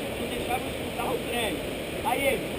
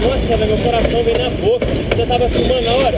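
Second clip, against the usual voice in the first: breathless excitement; 9 dB louder than usual. Real, not acted. Shaken after running from train.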